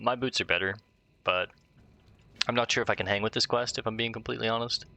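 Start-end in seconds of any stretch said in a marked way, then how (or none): none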